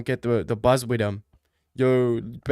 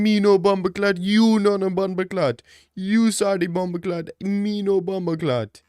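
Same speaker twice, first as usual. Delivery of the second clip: a hint of Jamaican patois, raised a little; mock Jamaican patois; 5 semitones higher than usual. Firing back at the guy in mock Jamaican patois. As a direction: lightly play a Jamaican yardie. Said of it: "And I told him".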